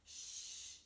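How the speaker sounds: soft whispered shush; quiet little fox's hush. A narrator's reading. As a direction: shush them under your breath. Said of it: "quiet, she said".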